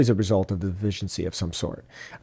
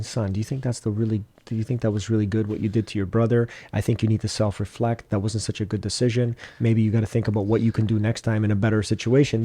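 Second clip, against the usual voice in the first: calm parent. Retold or imitated. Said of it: "'cause I'm more calm".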